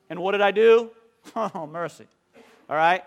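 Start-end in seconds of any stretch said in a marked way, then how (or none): none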